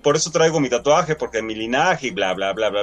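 mocking whiny hero. Mocking the hero's self-talk.

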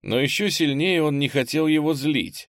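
ordinary delivery

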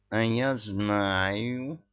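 very slow, drawn-out cat voice; drawling meow. A narrator's reading. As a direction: stretch it out like a lazy cat. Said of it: "протяжно мяукнул Мурзик".

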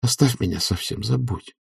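quiet, tender plea; soft pleading. A narrator's reading. Oblomov begs his friend to leave him, soft plea. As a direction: softly ask to be forgotten. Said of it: "нежным, умоляющим голосом".

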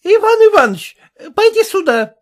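high, loud call across the room. Acted. Wife calling her husband across the room, loud and high. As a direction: call your husband over. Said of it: "позвала Накатова мужа".

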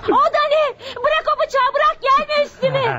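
terrified plea; frightened. Acted. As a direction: beg him to drop the knife. Woman sees the knife.

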